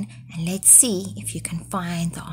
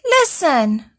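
crying out; 5 semitones higher than usual. Acted. Goat crying out again in panic, higher. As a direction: call out more and more frightened. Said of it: "cried Goat again".

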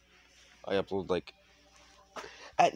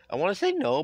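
loud outburst; 9 semitones higher, 6 dB louder than usual. Real, not acted. Shouting urge to refuse.

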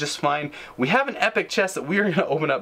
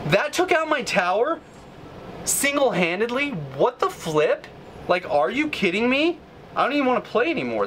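indignant and much higher, in disbelief at the game; exasperated rant; 8 semitones higher than usual. Real, not acted. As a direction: rant at the opponent in outraged disbelief. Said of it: "Sorry, I'm just ranting now".

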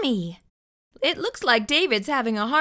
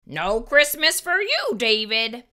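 stern threat. Acted. Parent threat.

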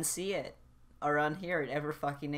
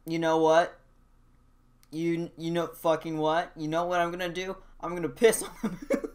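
mock rant; 5 dB louder than usual. Acted rant about dollar store.

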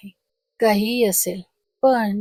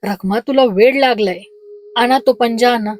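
loud, urgent appeal to his wife; husband louder, alarmed at his wife's madness; alarmed loud plea; 7 dB louder than usual. A narrator's reading. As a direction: raise the voice in alarm. Husband alarmed, pleading loudly.

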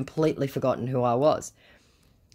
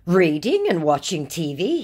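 mimicking me; 3 semitones higher, 5 dB louder than usual. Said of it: "mimicking me".

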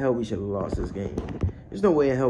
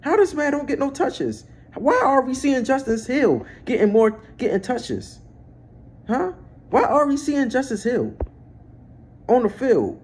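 loud, high-pitched outraged rant; pissed off; 12 semitones higher, 5 dB louder than usual. Real, not acted. Fan raging at the Ravens over who gets the ball, pissed off. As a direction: demand answers in a real angry yell. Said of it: "I'm pissed off".

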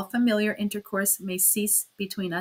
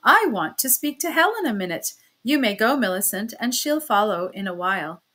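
a sharp refusal, somewhat louder; cried out; 2 semitones higher, 6 dB louder than usual. Acted. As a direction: snap back a firm no, raised voice. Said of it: "cried Annabella".

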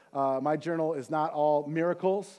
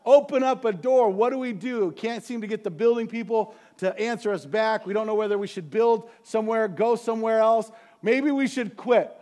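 discouraged prayer; 3 semitones higher, 3 dB louder than usual. Retold or imitated. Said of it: "feeling very discouraged".

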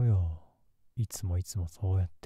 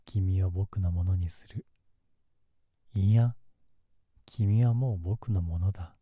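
menacing. Acted. Possessive threat.

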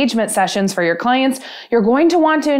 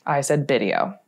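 breaking character giggling. Real, not acted. Blooper, cracking up at mistake.

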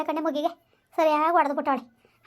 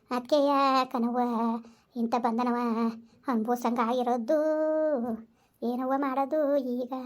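weeping lament; 3 semitones lower than usual. Acted. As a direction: grieve aloud for the golden son. Mother laments.

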